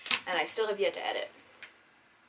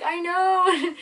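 high, louder quote; 10 semitones higher, 8 dB louder than usual. Retold or imitated. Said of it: "I was like".

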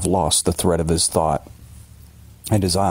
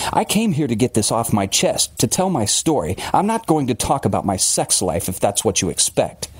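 lightly voiced indignant man; hint of prickly self-defense; Billings, indignant; 5 semitones higher than usual. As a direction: insist on telling it your own way.

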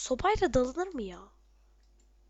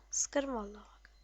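whisper; 3 semitones lower, 6 dB quieter than usual. Real, not acted. Threatening enemies under breath.

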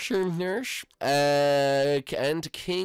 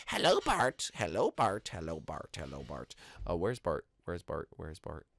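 fading call; 7 semitones lower, 6 dB quieter than usual. Acted. Hiding, calls fading out.

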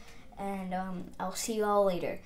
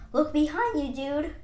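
raised, loud heads-up; urgent warning; 5 semitones higher, 6 dB louder than usual. Acted. Warning a dude about what is behind him, urgent call. Character warns friend of pursuers.

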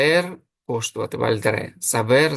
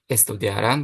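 Estudiarán stressed on its last syllable, án; stress on final án. Shown as a demonstration. Spanish teacher shows plural ending, stress on the án of Estudiarán. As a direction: put the weight on án at the end of Estudiarán. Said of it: "Закінчення ан під наголосом".

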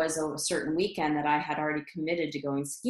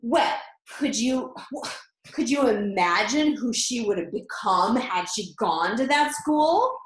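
higher, louder, wistful reproach; disappointed mom; 4 semitones higher, 4 dB louder than usual. Retold or imitated. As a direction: sigh it out like a let-down mother. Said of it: "and she goes".

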